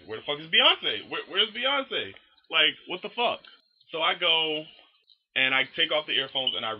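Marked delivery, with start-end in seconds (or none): 0.1-3.4 high-pitched, incredulous questioning; bewildered demand. Retold or imitated. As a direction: act out baffled disbelief, pitch rising high. Retold bewildered search for a singer.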